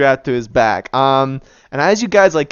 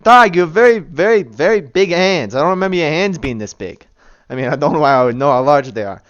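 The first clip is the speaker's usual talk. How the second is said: a lightly voiced tiny bandit protesting; indignant statue bandit; 2 semitones higher, 4 dB louder, faster than usual. Tiny statue protesting to the giant player, New York accent. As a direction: object to being picked up, sputtering.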